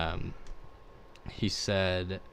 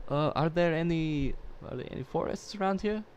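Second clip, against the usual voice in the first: backpacker voice; 8 semitones higher, 7 dB quieter than usual. Retold or imitated. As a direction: ask like a drifting backpacker. Imitating the backpacker's question.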